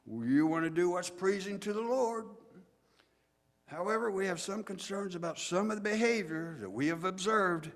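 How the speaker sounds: put-on high, loud sermonizing at the boys; pompous old preacher. Old Pharisee lecturing boys before devotions, loud and emphatic. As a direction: punch it out like a train building steam. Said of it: "slowly building up steam like an old train".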